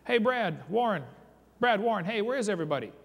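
mock shout for lost friends in the fog; retold yell. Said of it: "I yelled back at the top of my lungs".

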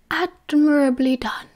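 a lightly voiced wise old wizard, unhurried; Dumbledore's voice.

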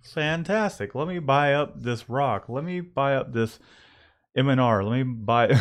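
pretend-impressed, easing back toward normal; mock enthusiasm. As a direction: gush as if ready to buy anything. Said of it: "I can't just be like".

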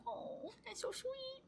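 high, very soft, slow coo; touched cooing. Real, not acted. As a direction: melt softly at a kind letter. Touched by a fan's letter.

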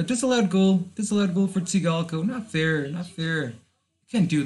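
high-pitched, outraged outburst easing off in level; indignant protest. Real, not acted. Player protests Tsigalko's disallowed goal, high indignant outburst. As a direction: cry foul at the referee, high and urgent.

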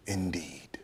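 low, very soft, falling "Indeed"; hushed, low, bitter aside; quiet scorn. Acted. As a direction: let "Indeed" sink nearly to nothing. Bitter comment after compromise.

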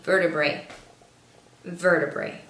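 VERTEBRAE said slowly and carefully; careful pronunciation. Shown as a demonstration. Learner proudly showing a hard word, VERTEBRAE pronounced carefully. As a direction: say "vertebrae" carefully, falling at the end. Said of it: "un poco difícil de pronunciar".

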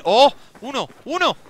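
high-pitched, startled outburst; real high, excited shout; excited exclamation. Real, not acted. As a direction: cry out at scoring one. Scores a kill.

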